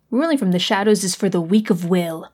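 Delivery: lightly voiced stern grandmother; a hint of a scolding old grandma; imitating Nana. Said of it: "Sounds just like Nana".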